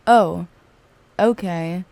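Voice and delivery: understated, matter-of-fact acknowledgement; straight-up, unfazed. Retold or imitated. Friend hearing she smoked weed, straight-up acceptance. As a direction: take the news without any awkwardness. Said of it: "It was just straight up".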